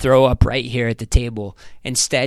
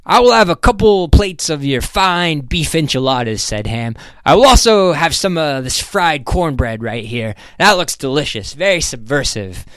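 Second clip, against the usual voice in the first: a touch louder and higher, ordering with relish; lightly voiced hearty businessman; 5 semitones higher, 4 dB louder than usual. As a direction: lightly play a confident diner ordering. Voices Ham ordering food.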